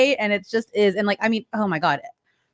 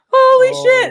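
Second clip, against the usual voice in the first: mock aghast; 13 semitones higher, 6 dB louder than usual. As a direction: act out a mortified parent's reaction. Retelling mortified reaction to child.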